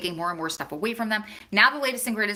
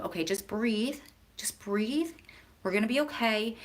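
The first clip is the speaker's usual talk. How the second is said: soothing calm-down; 4 dB quieter than usual. Retold or imitated. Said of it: "the way that I say those words".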